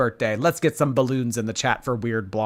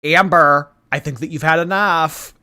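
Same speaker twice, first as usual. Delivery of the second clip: mock scolding call; 4 semitones higher, 5 dB louder than usual.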